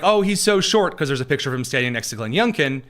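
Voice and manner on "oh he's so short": higher and louder, mocking sneer; mock whiny critic. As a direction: lampoon the critics' complaint. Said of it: "the Democrats are like".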